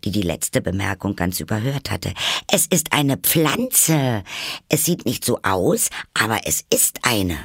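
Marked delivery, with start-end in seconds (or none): 2.5-7.4 put-on higher-pitched, eager girl's insistence; exclaiming. A narrator's reading. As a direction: blurt out the answer eagerly. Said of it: "rief Alice aus". (eifrig ausgerufen)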